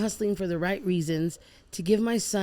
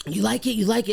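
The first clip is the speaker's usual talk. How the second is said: mock excited, pushing for a yes; lightly voiced excited cousin; 5 semitones higher, 4 dB louder than usual. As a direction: retell his eager question with some lift. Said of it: "He's so excited".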